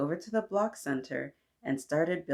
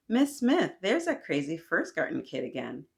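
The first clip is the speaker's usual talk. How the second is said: joking call. Acted. A boy teases Michael to the teacher, joking call. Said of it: "said jokingly".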